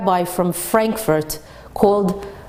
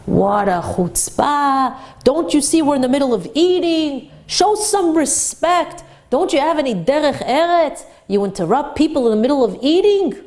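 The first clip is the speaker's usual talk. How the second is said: higher, outraged rich man scolding the rabbi; indignant scolding; 4 semitones higher than usual. Retold or imitated. Wealthy diner berating a rabbi collecting charity, outraged. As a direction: scold him for interrupting dinner. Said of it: "started to badger the".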